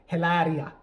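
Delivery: heavy put-on Spanish accent on the name; drawn-out faux-Spanish pronunciation; fake Spanish accent. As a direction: roll the name out in mock Spanish. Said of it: "will tell you in that accent".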